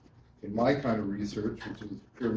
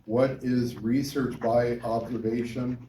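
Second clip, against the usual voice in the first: exam question voice; slower than usual. Shown as a demonstration. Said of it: "if I were to say to you, like, on an exam question".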